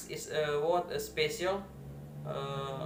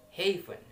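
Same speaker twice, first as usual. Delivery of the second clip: "haven" with first syllable lifted, second dropping; first-syllable stress; 3 semitones higher than usual. Shown as a demonstration. Student showing word stress in "haven", first syllable stressed. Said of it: "in the first two".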